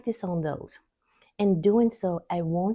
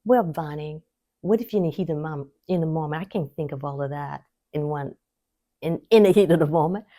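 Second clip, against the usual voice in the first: a hurried, flustered objection that gets louder at the end; imitating a viewer; 2 semitones lower, 5 dB louder, faster than usual. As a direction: rush the protest like a frazzled viewer. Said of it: "you may be saying".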